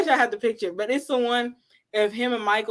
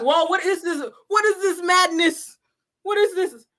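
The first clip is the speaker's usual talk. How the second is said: higher-pitched, disbelieving outburst; mock astonishment; 8 semitones higher than usual. Fan retelling meeting her idol, amazed and high-pitched. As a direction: exclaim as if stunned by the madness.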